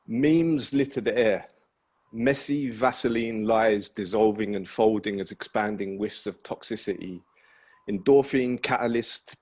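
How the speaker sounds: steady spoken-word delivery; poetry reading. Acted. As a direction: recite it deliberately. Reads second poem aloud.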